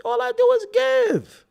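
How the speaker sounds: high, loud held note; mock saintly. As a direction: declare your generosity theatrically. Mock self-praise.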